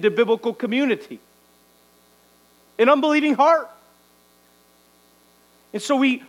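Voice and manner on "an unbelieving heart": raised, pressing declaration; emphatic warning. Real, not acted. Preacher warns the church, raised emphatic voice.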